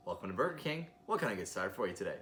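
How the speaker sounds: polite posh drive-thru greeting; smooth professional service voice; polished drive-thru voice. Retold or imitated. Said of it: "Very polite, very posh, very polished".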